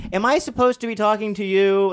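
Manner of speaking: high mock Amy Sedaris voice; high sweet small woman. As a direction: play a delighted little woman asking politely.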